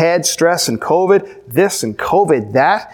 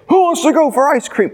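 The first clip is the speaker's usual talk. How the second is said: put-on high, bright call to the kids; rally the children for a treat; cheerful call; 9 semitones higher than usual. Dad calling excited kids in pajamas, high and cheerful.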